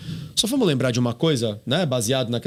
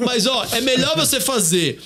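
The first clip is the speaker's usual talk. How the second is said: laughing; 9 semitones higher than usual. Real, not acted. Laughing at the seal joke.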